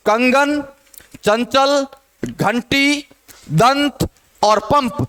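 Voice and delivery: कंगन, चंचल, घंटी, दंत, पंप one by one, each nasal sounded; demonstrated pronunciation. Shown as a demonstration. Teacher reading examples to students, each nasal of कंगन to पंप articulated. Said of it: "पांचों का आप उच्चारण करके देखोगे".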